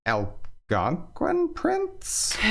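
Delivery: slow, doubting Algonquin prince?; suspicious. Acted. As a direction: drag out the disbelief. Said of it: "far more suspicious of this particular claim".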